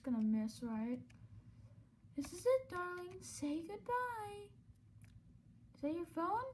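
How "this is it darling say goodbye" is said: gloating host. Acted. Villain taunt.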